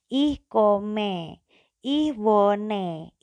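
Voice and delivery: kome and wone with an open e; the learners' wrong way; wrong reading. Shown as a demonstration. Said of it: "Itu salah".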